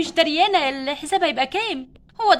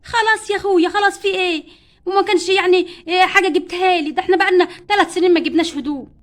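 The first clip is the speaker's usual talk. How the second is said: annoyed shout; 2 semitones higher, 6 dB louder than usual. Acted. Wife shouts back.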